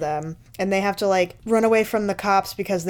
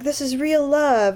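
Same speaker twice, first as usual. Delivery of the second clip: mock dreamy girl; 7 semitones higher, slower than usual. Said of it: "She's like".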